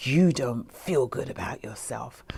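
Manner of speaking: low, soft voice from inside the head; inner voice. Acted. Her own mind talking to her out of the blue, low and soft. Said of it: "out of the blue, I hear this".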